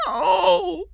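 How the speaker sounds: very high, drawn-out wail; horrified mother's long scream. A narrator's reading. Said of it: "Diane screamed".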